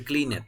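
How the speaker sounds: "cleaned" as clean-et, two syllables; wrong extra syllable. Shown as a demonstration. Teacher ruling out the mistake, "cleaned" as clean-et. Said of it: "Nunca va a ser cleaned".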